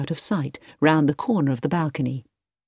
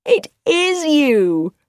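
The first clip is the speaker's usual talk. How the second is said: astonished; 11 semitones higher, 4 dB louder, much slower than usual. A narrator's reading. Edward astonished.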